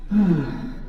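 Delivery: ordinary talk, nothing marked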